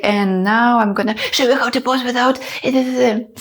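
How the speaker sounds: imitated nervous, excited rush; talking too fast. Shown as a demonstration. Mimicking herself nervous on camera, a too-fast gabble. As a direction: rattle it off as if overexcited. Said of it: "I was talking too fast".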